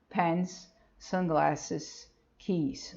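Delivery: soft model words. Shown as a demonstration. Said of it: "a gente não põe nada".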